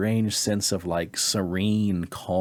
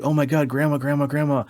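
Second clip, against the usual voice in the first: higher, louder, overwhelmed cry of recognition; retold astonishment; 7 semitones higher, 4 dB louder than usual. Dreamer recognizes late grandmother, retold astonished cry. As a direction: imitate being stunned to recognize her.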